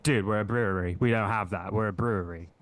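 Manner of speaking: mildly exasperated, imitating a rude waiter; condescending retold server. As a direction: talk down as if to an imbecile. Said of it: "talking to Scott like he was a fucking imbecile".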